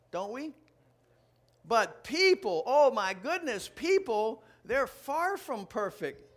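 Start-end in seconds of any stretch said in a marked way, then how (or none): 1.6-6.3 mock exasperation. Real, not acted. Exasperated about people.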